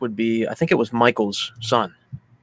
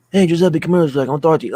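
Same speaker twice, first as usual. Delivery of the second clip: louder Brooklyn-Italian grandpa voice; imitated Brooklyn accent; 5 semitones higher, 4 dB louder, much faster than usual. Grandpa calling Giuseppe over, imitated Brooklyn accent. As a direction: call out like an old Brooklyn Italian. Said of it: "kinda like a Brooklyn sort of accent".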